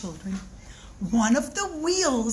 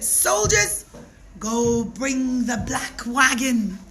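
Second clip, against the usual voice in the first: slow, ominous order; stern royal command; slower than usual. Acted. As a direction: call the soldiers, then slow and heavy. King commands his soldiers.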